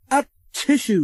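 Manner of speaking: spluttering. A narrator's reading. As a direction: splutter it out through coal dust. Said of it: "spluttered Thomas".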